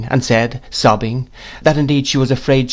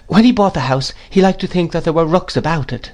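lightly voiced, higher-pitched woman; meek mother; 7 semitones higher than usual. A narrator's reading. Mother explaining her husband's choice, meekly.

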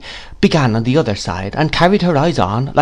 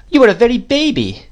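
much higher-pitched exclamation; exclaiming; 13 semitones higher, 4 dB louder than usual. A narrator's reading. Miss Betsy to the youthful mother, exclaiming. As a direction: exclaim in a high, astonished voice. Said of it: "exclaimed Miss Betsy".

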